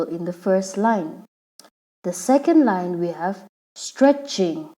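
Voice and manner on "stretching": "stretching" in two distinct syllables; split into syllables. Shown as a demonstration. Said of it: "that is two syllables".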